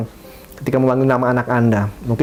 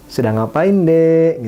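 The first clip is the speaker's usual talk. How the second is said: gentle casual question; 4 semitones higher, much slower than usual. Shown as a demonstration. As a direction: ask it casually, like a friendly chat. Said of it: "gunakan nada seperti itu".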